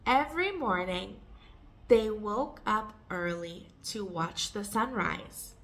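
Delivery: careful phrase-by-phrase model reading; measured, for learners to repeat. Shown as a demonstration. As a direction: pause after the opening phrase. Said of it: "read it more slowly and take pauses".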